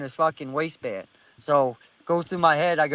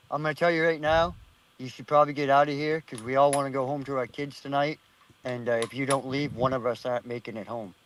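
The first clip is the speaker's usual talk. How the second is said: low, softening voice of a threatening stranger; deeper voice; 4 semitones lower, 4 dB quieter than usual. Retold or imitated. Storyteller voices the stranger warning him off, deeper voice. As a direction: deliver a quiet, measured warning, dropping lower as it goes. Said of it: "this fucking deeper voice".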